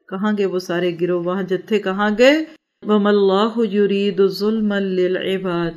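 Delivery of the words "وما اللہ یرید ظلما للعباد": slow, measured Arabic recitation; slow scripture reading in Arabic; Quran recitation. Real, not acted. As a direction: recite the verse with drawn-out vowels.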